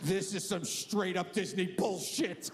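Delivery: put-on angry child. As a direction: play a kid too angry to cry. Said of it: "they're just so angry".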